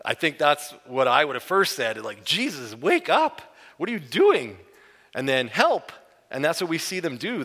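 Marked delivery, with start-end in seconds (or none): 2.2-5.9 high, loud frantic cry to wake him; panicked shout. Retold or imitated. Preacher imagining waking Jesus in the storm, shouting in panic. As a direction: yell for help in a sinking boat.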